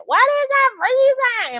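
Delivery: high, stretched, loud rapper-style yell. Retold or imitated. Budget vlogger doing a rapper for her viewers, loud and high. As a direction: belt it like a rapper. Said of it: "In my rapper voice".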